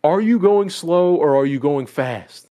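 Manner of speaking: slow, deliberate mock yell; retold yelling. Band teacher demanding an answer from his drummer, mock yelling. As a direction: imitate a teacher yelling, stretching the words out. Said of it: "he starts yelling at this kid".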